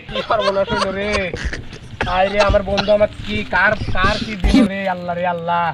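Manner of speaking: acted wailing over a loss; crying lament. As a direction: lament aloud, stretching out the cries. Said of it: "তুই কান্দিছিস".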